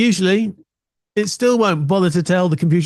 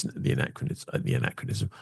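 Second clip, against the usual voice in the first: muttering to himself; 7 semitones lower, 11 dB quieter than usual. Real, not acted. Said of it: "I can't remember what the anachronism is".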